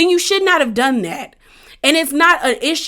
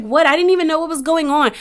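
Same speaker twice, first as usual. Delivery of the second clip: higher, quicker mock-clueless protest; playing dumb; 5 semitones higher, faster than usual. Shanice answers her accusing friend, mock playing dumb. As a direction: imitate someone acting clueless, pitched up. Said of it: "tried to play the stupid girl thing".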